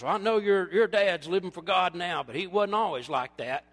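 dad blurting out. Retold or imitated. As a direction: blurt it out like a tactless dad at dinner. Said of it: "my dad all of a sudden just blurts out".

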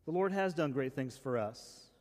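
"has" given emphasis, the line falling gently to its end; stress on has. Shown as a demonstration. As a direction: repeat the verse leaning on "has". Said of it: "Emphasis mine".

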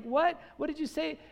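high-pitched, incredulous question; mock astonishment. Listeners reacting to the word Samaritan, in mock astonishment. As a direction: act out a listener's double take.

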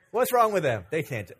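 put-on a young player sneering at others; scoffing. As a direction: scoff at the lesser jumpers. Mocking shorter players as young man.

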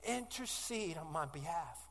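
quiet, slowing, pleading prayer; praying alone in struggle, hushed and pleading; retold desperate prayer. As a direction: sink into a soft, hurting plea. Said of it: "the thing I say is".

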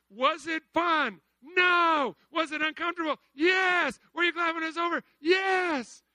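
loud, high call and answer; loud exuberant sermon; rousing preaching. Real, not acted. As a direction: fire the crowd up.

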